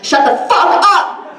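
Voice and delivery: high, slow, laughing mock yell; mock angry yell. Anonymous classmate telling the front-row girl off, mock yell. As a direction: drag out a fake furious shout. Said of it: "they were like".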